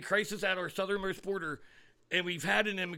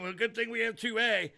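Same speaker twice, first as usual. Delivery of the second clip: mocking quote; 6 semitones higher than usual. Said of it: "those of you who keep saying".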